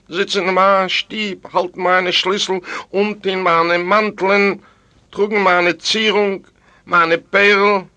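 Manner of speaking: high, outraged dead wife; jealous ghost's mounting protest; indignant ghost woman. A narrator's reading. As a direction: pile up grievances in a high, forceful voice. Dead wife of butcher rages.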